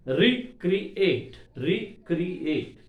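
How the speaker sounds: "Recreate" in three separate beats, twice; syllable by syllable. Shown as a demonstration. Lecturer counting three syllables for students, "Recreate" broken up. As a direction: break "Recreate" into three parts. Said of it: "Three syllables are there".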